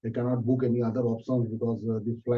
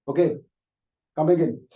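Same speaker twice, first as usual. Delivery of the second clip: stern boss; 3 semitones higher, 5 dB louder than usual. Acted. Boss lets him in.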